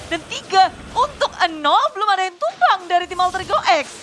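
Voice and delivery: fast, excited play-by-play; esports caster. Acted. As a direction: call the teamfight live. Live teamfight call by caster.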